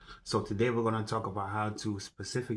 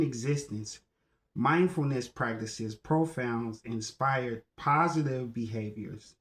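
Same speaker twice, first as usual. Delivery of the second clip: emphatic declaiming, high opening easing down; formal recitation; 3 semitones higher than usual. Acted. Speaker repeating the mindset teaching one more time, emphatic declaiming. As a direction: proclaim it phrase by phrase, then settle.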